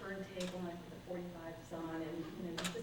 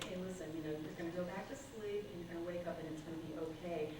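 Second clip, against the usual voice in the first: soothing self-talk; 3 dB quieter than usual. Retold or imitated. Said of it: "I just say".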